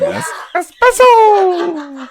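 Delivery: very high, slow squeal; Pokemon voice. Pretend. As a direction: squeal it like a cartoon creature. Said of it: "sounds like a Pokemon name".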